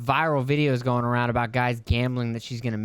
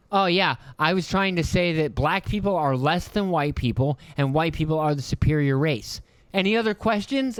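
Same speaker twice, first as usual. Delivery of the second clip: sarcastic mock answer; 3 semitones higher than usual.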